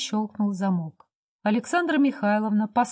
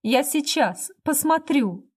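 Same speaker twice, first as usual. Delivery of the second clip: a higher, pleading cry; sudden cry; 5 semitones higher, slower than usual. A narrator's reading. Beaten wife crying out to her husband to let her go. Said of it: "Вдруг Александра Михайловна крикнула".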